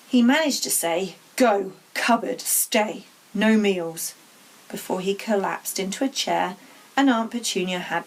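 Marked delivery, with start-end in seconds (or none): 1.3-4.1 choked, clipped-off angry commands; barely able to speak for rage. Acted. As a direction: spit out each word, too furious for sentences. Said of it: "so angry he could hardly speak".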